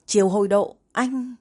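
flaring anger. A narrator's reading. Wife about to explode at her husband, angry. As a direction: call his name as if about to lose your temper. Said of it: "Chưa kịp để Đàm trước nổi giận".

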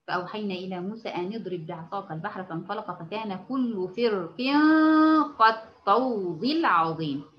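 measured tajweed recitation, held nasal sounds; teacher's model recitation; Quran recitation. Shown as a demonstration. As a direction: recite the verse carefully, stretching the final words.

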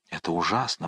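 hushed, horrified murmur; whispered. A narrator's reading. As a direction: drop to a hush. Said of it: "прошептал Гримо".

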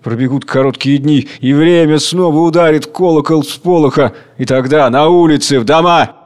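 measured, building menace; Tsar Hunger promising. Acted. Tsar Hunger promising his children the bell will ring. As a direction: promise the coming hour. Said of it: "Царь Голод".

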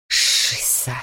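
hushed alarmed whisper; whispered curse. Acted. Old mentor hearing the hunter arrive, urgent whisper. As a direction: breathe the curse out under your breath.

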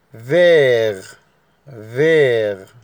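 "فيغ" ممدودة بنطق فرنسي; slow French vert. Shown as a demonstration. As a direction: stretch "فيغ" like a French teacher. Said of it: "اللون رقم تلاتة".

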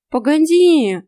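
loud, high sudden stop; startled cat. A narrator's reading. Startled cat stops the girl, loud and high. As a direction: cut in, shocked.

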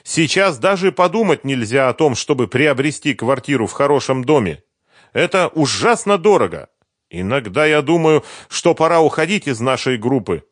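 put-on eager young woman recalling Kiev; Sveta's voice. A narrator's reading. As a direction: chatter it brightly as Sveta.

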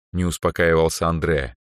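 plain reading voice

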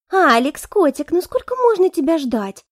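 put-on high, cooing girlish voice; clingy blonde. Blonde hangs on Alex's neck, high and cooing. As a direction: coo at him like a spoiled girlfriend.

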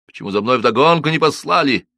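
a touch of menace in the question; stern demand. A narrator's reading. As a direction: ask it threateningly. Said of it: "грозно спросил Одинцов". (грозно)

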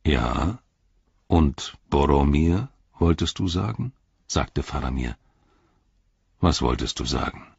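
composed lord pressing gently; probing Faramir. Acted. Faramir probes Sam's slip.

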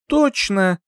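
high hiss through gritted teeth. A narrator's reading. Heroine putting her dress strap back, hissing. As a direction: force it out through clenched teeth. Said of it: "прошипела сквозь зубы".

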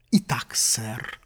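low, slow self-important inspector; pompous. Acted. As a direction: start it with grave importance. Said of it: "важно начал инспектор".

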